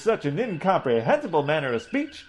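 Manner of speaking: a loftily scornful Southern preacher; Southern gentleman accent. Acted. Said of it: "your ridiculously accented utterance".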